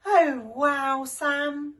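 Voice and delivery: loud, delighted wow; grinning. Acted. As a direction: say it with a big grin. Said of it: "grinned Shifty".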